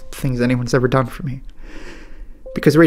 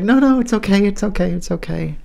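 higher and louder, retelling her soothing; imitating comforting colleague; 8 semitones higher, 3 dB louder than usual. Young reporter comforting crying photographer, lightly imitated higher. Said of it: "comforting me".

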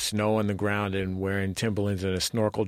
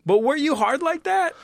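excited; 6 dB louder than usual. Real, not acted. Host's sudden loud question.

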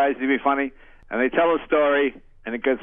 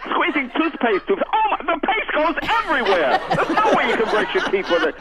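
higher, mock-dramatic infomercial pitch; 11 semitones higher than usual. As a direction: play up the clumsy-ad disaster. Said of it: "my favorite thing about those infomercials".

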